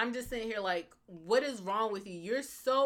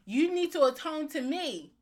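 Jason Todd; 7 semitones higher, 4 dB louder than usual. Acted. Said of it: "if I was Jason Todd".

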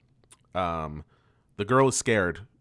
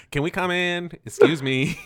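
polite knock; 9 semitones higher, 5 dB louder than usual. Retold or imitated.

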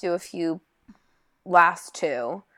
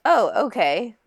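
surprised; 4 semitones higher, 5 dB louder, slower than usual. Retold or imitated. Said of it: "Which I was like".

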